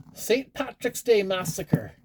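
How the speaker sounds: a slow, hammy fake Irish accent on the film title; bad Irish accent. Reading a movie title to viewers in a bad Irish accent. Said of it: "That, that, that was a terrible Irish accent".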